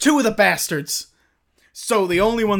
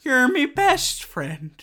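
tearful farewell; 7 semitones higher, slower than usual. Acted. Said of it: "And you say".

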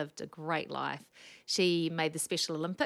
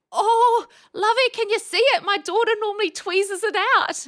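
put-on much higher, louder sweet old lady; 14 dB louder than usual. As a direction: pipe up like a dear old patient. Elderly patient voiced in story.

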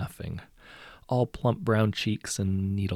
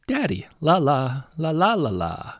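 put-on high, loud singsong child; playful high-pitched toddler babble; mermaid toddler; 7 semitones higher, 7 dB louder than usual. A narrator's reading. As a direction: lilt it like a little mermaid. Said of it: "Her voice rings like bells. Her accent is strange".

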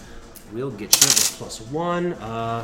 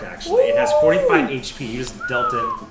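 very high, excited voice; excited squeal; 9 dB louder than usual. Real, not acted. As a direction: squeal with delight. Damage kills the shark.

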